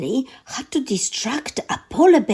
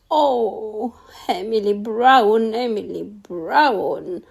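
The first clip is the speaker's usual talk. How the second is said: weeping. Acted. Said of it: "wept the thing".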